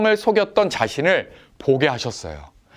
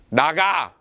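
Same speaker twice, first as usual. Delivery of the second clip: a blunt, short "나가." with no softness; curt; much slower than usual. Retold or imitated. Older brother curtly orders his little brother out. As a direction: snap "나가." flatly as a mild mock order. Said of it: "두 종류가 있어요".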